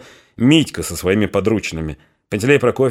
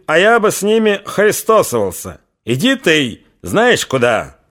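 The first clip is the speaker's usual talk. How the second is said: rising anger; 3 semitones higher than usual. Acted. Mitka flares up at his in-law, growing furious. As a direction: lash out at the old fool. Mitka quarrels with the old man.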